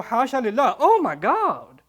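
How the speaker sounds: swooning awe. Retold or imitated. Women swoon over Yusuf.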